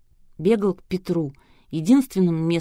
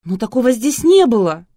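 higher, louder indignant protest; 6 semitones higher, 9 dB louder than usual. A narrator's reading. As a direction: protest in outrage. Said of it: "С возмущением произнесла".

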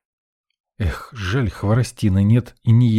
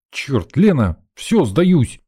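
swearing; 5 semitones higher, 3 dB louder, much slower than usual. Acted. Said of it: "выругался я".

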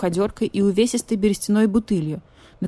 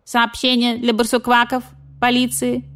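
higher, louder croaky sick message; croaking rook; 6 semitones higher, 4 dB louder than usual. Acted. Sick rook sends message to badger police, croaky. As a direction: croak the dire message urgently.

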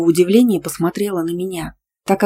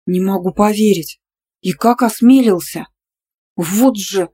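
louder, annoyed disbelief; displeased; 2 semitones higher, 7 dB louder than usual. A narrator's reading. Nastya reacts to the ex calling again, annoyed. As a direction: grumble in mild outrage. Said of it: "недовольно сморщилась подруга".

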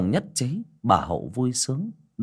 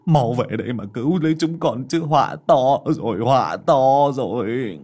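frantic prayer; 4 dB louder than usual. A narrator's reading. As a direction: beg the ancestors desperately. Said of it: "mà khấn".

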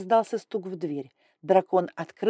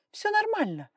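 reassuring. Acted. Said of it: "попыталась успокоить его".

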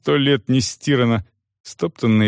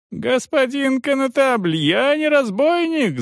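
much higher, slow desperate howl; desperate yell. A narrator's reading. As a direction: scream to be heard. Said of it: "заорал мужик".

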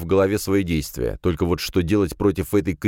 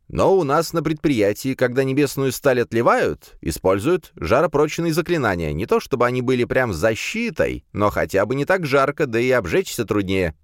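character voice; 6 semitones higher than usual. Acted. Kirill explains at length.

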